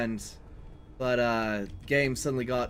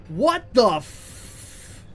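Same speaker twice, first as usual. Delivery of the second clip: startled; 7 semitones higher, 5 dB louder, much slower than usual. Real, not acted. Surprised by the truck.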